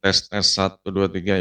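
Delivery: metallic robot mic check. Shown as a demonstration. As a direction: sound like a robot through a headset. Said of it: "kayak robot lah". (suara robot)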